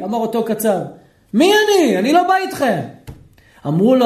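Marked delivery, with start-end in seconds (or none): 1.3-2.8 קול גבוה ונעלב; לסרב בהתרסה, מי אני בכלל; קצב נעלב. Acted. Butcher refuses, offended. (הקצב מסרב לבוא עם התלמידים, גבוה ומתריס)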